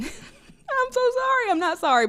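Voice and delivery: giggling through the words, pitch jumping up; laughing apology. Real, not acted. Vlogger laughing at her own fast talking. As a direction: laugh while apologizing, half meaning it.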